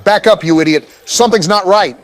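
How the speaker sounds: high exasperated yelling; being chased. Real, not acted. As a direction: yell at him in alarm.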